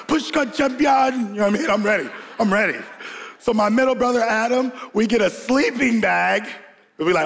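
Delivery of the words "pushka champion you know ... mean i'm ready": Sanka. Retold or imitated. Brother quoting Cool Runnings before the sled push, character impression. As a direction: play the bobsledder, stretched out and high. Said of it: "I'm Sanka".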